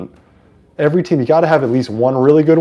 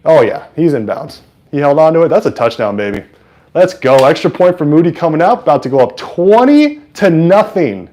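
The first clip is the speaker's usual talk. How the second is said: higher, louder play-by-play; excited touchdown call; 4 semitones higher, 5 dB louder than usual. Real, not acted. Streamer calls a touchdown for viewers, excited. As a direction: call it with rising excitement, stretching the score.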